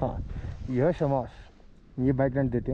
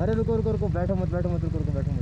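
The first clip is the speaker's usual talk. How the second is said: urgent warning; faster than usual. Real, not acted. Rider telling a companion not to sit yet, urgent warning. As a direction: urgently stop them, pitch falling as it repeats. Stopping someone from sitting.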